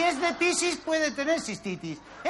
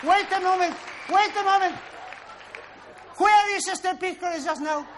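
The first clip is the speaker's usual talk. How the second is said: mock excited quiz; 3 semitones higher, 5 dB louder than usual. Hammed-up English quiz.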